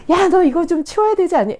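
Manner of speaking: put-on high, loud nagging at a child; irritated scolding. Tired parent scolding a toddler about toys, irritated. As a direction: snap at the kid over the mess. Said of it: "짜증을 막 낸 거예요".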